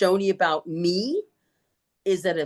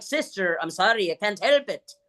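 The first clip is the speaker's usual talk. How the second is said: lightly put-on Irish accent apology; mimicked Irish accent. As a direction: apologise while still copying the nun's Irish accent. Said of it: "quit making fun of her accent".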